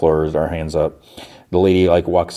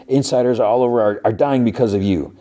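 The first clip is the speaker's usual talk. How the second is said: higher-pitched, lightly indignant blame; mild mock accusation; 4 semitones higher than usual. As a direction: retell an accusation with a touch of outrage. His accusation, which she echoes back.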